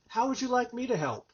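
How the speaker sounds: demonstrating a disarming offer; helpful question. Shown as a demonstration. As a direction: ask it lightly and openly. Models the boundary-setting question.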